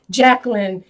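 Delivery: a hint of a sassy drama host; lightly voiced catty nickname roll call; mock-announcing each name with a sneer; imitating his name bits. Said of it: "He always, like, inserts something in between their name".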